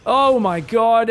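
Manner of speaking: slow, loud drawn-out disbelief; stunned shout. Real, not acted. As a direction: let it out slowly in shock. Disaster unfolding on screen.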